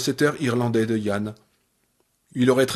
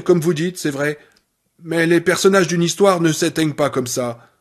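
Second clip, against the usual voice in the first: lightly voiced angry nurse; 3 semitones higher than usual. Annie lecturing Paul on dying, mildly heated. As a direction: lecture him like a stern nurse.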